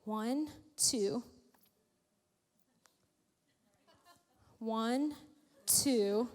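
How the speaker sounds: mock counting, low and hushed, rising to the end; servant counting soldiers. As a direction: count the enemy army in growing dismay. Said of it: "And the servant's like".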